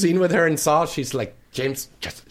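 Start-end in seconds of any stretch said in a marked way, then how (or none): 1.5-2.3 hushed imitation of a whisper; imitated whisper. Co-star whispering in his ear during a scene, imitated whisper. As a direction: softly mimic someone whispering. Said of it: "she's whispering in my ear".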